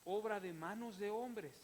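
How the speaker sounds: rising, emphatic scripture reading with hammered lines; fervent pulpit reading of the psalm; preaching a psalm. Acted. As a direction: proclaim each line, punching pero.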